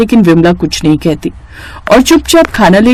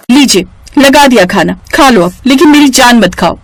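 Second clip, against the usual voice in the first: irritated; 5 semitones higher than usual. Acted. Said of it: "झुंझलाहट में".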